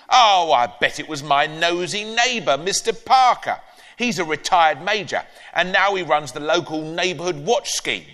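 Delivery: a touch of the gossiping granny. Acted. Granny gossiping to grandson about the neighbour, lightly voiced.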